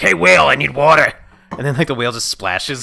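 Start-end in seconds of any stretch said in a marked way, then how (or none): 0.0-1.1 put-on loud gruff baby voice. A thirsty baby calling the whale, gruff. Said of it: "just being real gruff and be like".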